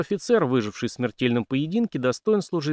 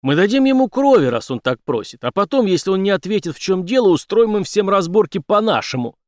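menacing threat; 8 semitones higher, 7 dB louder than usual. Acted. Henry threatens the police chief.

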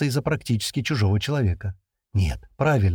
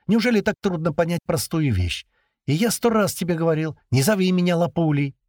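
lightly irritated, pitched up; a touch of annoyance, higher; 8 semitones higher than usual. A narrator's reading. Perfilov snapping at his mistress about the nickname, mild irritation. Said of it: "в раздражении сказал Перфилов".

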